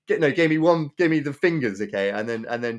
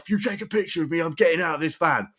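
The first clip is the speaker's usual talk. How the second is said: mild mock threat; 3 semitones higher than usual. Van driver threatens the man with the camera, mildly mock angry. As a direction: warn him in a slightly hammed-up angry voice. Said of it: "the angry guy".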